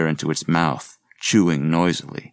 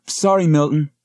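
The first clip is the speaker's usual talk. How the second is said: higher, louder quick sorry; called back apology; 10 semitones higher, 4 dB louder than usual. Acted. Student jogging away calls sorry to Milton, lightly raised. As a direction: toss the apology over your shoulder.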